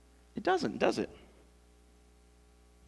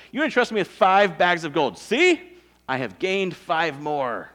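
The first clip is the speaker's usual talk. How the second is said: showing off; 7 dB louder than usual. Acted. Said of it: "He's just kinda showing off".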